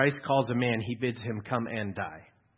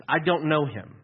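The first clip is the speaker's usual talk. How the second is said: louder, forceful refusal; firm denial; 4 semitones higher, 6 dB louder than usual. Retold or imitated. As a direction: slam the door on it. Repeated Peter's denial.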